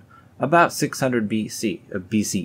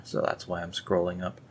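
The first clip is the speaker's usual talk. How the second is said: ordinary talk, nothing marked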